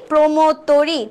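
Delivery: "প্রমোদ তরি" said "promod tori", o like ও; closed o pronunciation. Shown as a demonstration. Teacher confirming the right option, "প্রমোদ তরি" with closed o. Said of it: "আমরা একটাই পাইলাম সঠিক উচ্চারণ".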